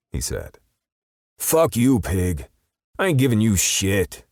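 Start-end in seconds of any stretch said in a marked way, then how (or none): 1.4-4.2 high, loud sneering defiance; defiant perp. A narrator's reading. Cornered perp spitting defiance at Justice, high and loud. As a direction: spit it back at the cop.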